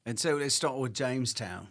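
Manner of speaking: put-on a light working class British accent; a hint of Cockney British; mock British accent. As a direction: slip into a cheeky London accent. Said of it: "that accent".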